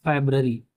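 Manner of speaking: फरवरी said carefully as "febrəri", each syllable clear; model pronunciation. Shown as a demonstration. Teacher to class, carefully modelling फरवरी. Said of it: "फरवरी बोलते हैं".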